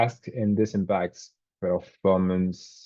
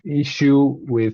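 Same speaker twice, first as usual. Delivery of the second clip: buffering stutter; 6 semitones higher, 6 dB louder, slower than usual. Real, not acted. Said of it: "you cut out there for me".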